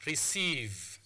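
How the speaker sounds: "Receive" with a lengthened ee; long vowel. Shown as a demonstration. Teacher repeating the example word for students, long vowel. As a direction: hold the ee in "Receive". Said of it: "it is pronounced as a long vowel".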